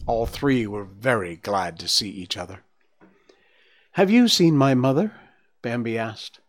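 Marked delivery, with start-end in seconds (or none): 3.9-5.1 worried question. Acted. Bambi asks anxiously.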